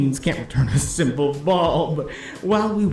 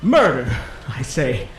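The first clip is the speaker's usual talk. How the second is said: urgent announcing. Acted. Announcer insists murder is real.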